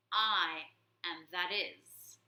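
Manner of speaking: slow, grave pronouncement; solemn hero. Acted. Warrior mouse answering the warlord, slow and solemn. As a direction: speak like a legend.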